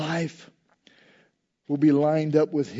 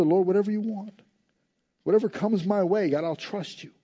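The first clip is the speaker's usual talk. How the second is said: sincere prayer; 3 semitones higher than usual. Retold or imitated. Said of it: "we'll all just say together".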